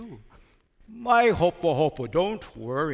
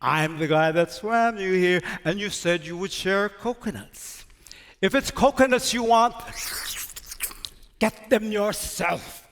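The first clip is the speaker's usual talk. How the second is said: octopus calling out. Acted. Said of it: "He'e calls out to him".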